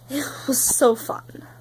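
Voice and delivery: slow, deadpan sarcasm; sarcastic. Real, not acted. Mocking her lonely birthday to viewers, sarcastic. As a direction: say it slow and bitter, meaning the opposite. Birthday spent crying alone.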